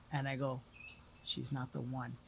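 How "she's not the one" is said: hushed admission. Retold or imitated. Admitting it to the psychic.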